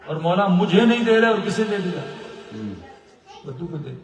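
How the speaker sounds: loud, high aggrieved outburst; indignant complaint. Retold or imitated. Scholar complaining the saint favoured the Bedouin, indignant outburst.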